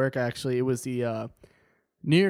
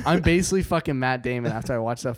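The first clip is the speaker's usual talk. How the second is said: put-on light Boston wiseguy bravado, dropping kid at the ends; a hint of a cocky Boston Statie; half-joking Boston tough-guy swagger. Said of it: "Ethan, I can't lie, that was actually really good".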